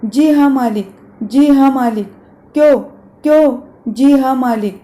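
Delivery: loud, sputtering mockery; angry stammer. Master mocking her yes-sir reply, angry sputter. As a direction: spit the words back, stammering. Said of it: "गुस्से से तुतलाने लगता है".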